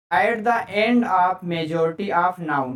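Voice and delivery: very slow, word by word, with stress on end; slow dictation. Shown as a demonstration. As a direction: dictate the rule slowly to the class. Teacher repeats rule slowly.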